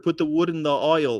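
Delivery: HOLE said as "oil"; Yorkshire-style "oil"; Yorkshire pronunciation. Shown as a demonstration. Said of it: "what Beetlejuice told me".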